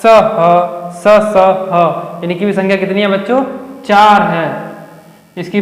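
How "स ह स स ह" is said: slowly drawn-out स and ह, hissing friction; slow hissing demo. Shown as a demonstration. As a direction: hiss each स out slowly like after eating chilli. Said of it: "जो कि स". (धीमे-धीमे सीटी जैसी स ध्वनि)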